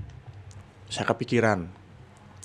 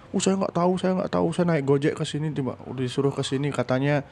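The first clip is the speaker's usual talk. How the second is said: higher pitched flustered denial; nervous friend; 6 semitones higher than usual. Retold or imitated. The friend denying he knows, flustered higher voice. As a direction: play the scared friend, pitched up.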